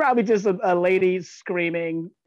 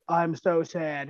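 slow deadpan; much slower than usual. Retold or imitated.

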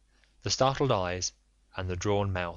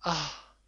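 a quick, soft intake of breath as her doubts are resolved; gasp, understated, relieved and fearful; sharp gasp; 7 semitones higher, 3 dB quieter than usual. Acted. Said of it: "She drew in her breath sharply".

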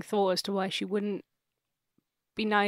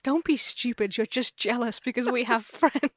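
higher, hammed-up scolding breaking into a laugh; mock dismissive retort; 3 semitones higher than usual. Family brushes off dad's warning, mock dismissive. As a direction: scoff at him in play, laughing near the end.

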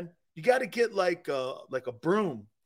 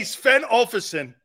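mock Norwegian; 3 semitones higher, 5 dB louder, slower than usual.

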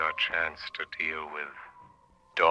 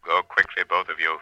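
unearthly voice; 2 semitones higher, 5 dB louder than usual. Acted. Shadow commands them.

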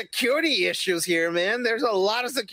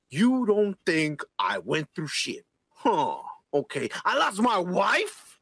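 mocking the character; much slower than usual. Friend mocking the character's sad line, slow and gruff. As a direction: drag it out like a brooding tough guy. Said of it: "The only thing he did is like".

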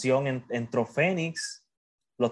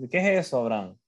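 curious visitor; faster than usual. Acted. Acts a visitor asking about the sword.

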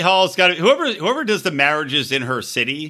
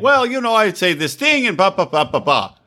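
calm Ziad; 4 semitones higher than usual. Retold or imitated. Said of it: "He's like".

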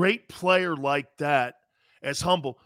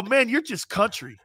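laughing tease; 7 semitones higher than usual. Retold or imitated. Teasing Barry, laughing.

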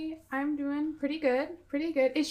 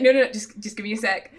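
insistent brush-off; 2 semitones lower, 7 dB louder, much faster than usual. Acted. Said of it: "I'm just be like".

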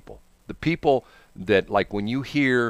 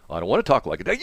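lower, grudging mock refusal; lightly acted protest, pitched down; reluctant radio hire; 5 semitones lower, faster than usual. New hire balks at boss's order, low and reluctant. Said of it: "he went to this station".

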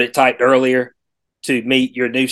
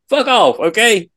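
fed-up, higher rude clerk; rude service rep; 4 semitones higher than usual. Retold or imitated. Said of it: "Susie be like".

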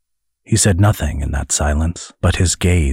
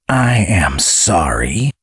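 insincere apology; slower than usual. Acted. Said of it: "in a tone that made clear that he was not sorry".

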